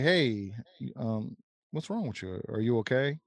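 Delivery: soft, gentle check-in; caring ask. Shown as a demonstration. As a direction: ask it like you really care. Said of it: "That's different".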